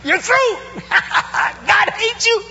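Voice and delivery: high, shouted hellfire preaching; mock prophet yelling doom at Nineveh; fiery sermon. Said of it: "preaches his favorite sermon".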